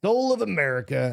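mock old man voice; quavery old man saying soul of America; old person voice. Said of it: "How do you do old person voice?".

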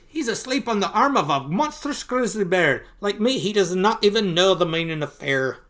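lightly voiced marvelling uncle; Uncle Scrooge, awestruck. Finding nephew asleep on a grizzly, mildly acted awe.

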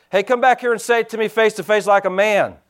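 calls the challenge back after the car; hollered back. Retold or imitated. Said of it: "And I hollered back".

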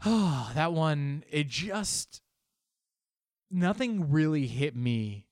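sigh, then overdone awe with drawn-out words. Acted. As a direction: pretend to be overwhelmed, to cover a bluff. Bluffing about an unread book.

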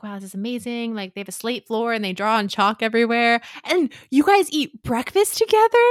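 awed delight. Retold or imitated. Philippa at the Winchester house, awed gushing delight. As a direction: marvel at it like a wide-eyed girl. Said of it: "she's like".

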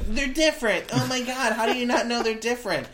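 high, whiny know-it-all. Retold or imitated. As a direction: whine like an exasperated blogger. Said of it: "this is the whiny voice that I'm giving them".

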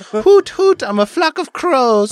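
high mock hooting bird; hooting crow. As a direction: hoot it out like a bird. Playing a crow joke.

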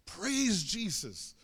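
mild mock yell, very drawn out; retold yell. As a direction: imitate someone calling out praise, stretching the words slowly. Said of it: "starts literally yelling out".

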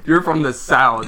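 high burst of laughter into the quote; mock the reaction through laughter; laughing echo.

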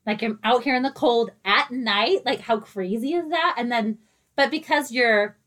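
muffled through a face mask. Real, not acted. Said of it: "I'm muffled. I have a mask on".

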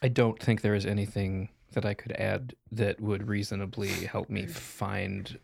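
usual speaking voice

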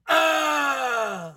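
half-awake grunt imitating wife; sleepy groan. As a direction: groan like someone just woken. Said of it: "you hear her from the other side".

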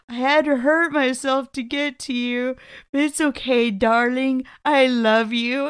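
slightly sing-song pleading quote; a touch of sweet-talking the darling; mildly hammed devoted lover; lightly acted lovesick zombie. Acting Freddy's lovesick zombie lines.

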